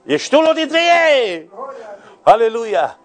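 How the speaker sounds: climactic preaching cry. Real, not acted. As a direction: cry the promise out to the whole congregation. Climactic cry after calm line. (strigăt de predicator, la apogeu)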